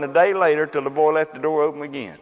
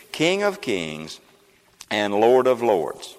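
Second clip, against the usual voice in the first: solemn and slow; 3 semitones lower, much slower than usual. Acted. Solemn scripture climax.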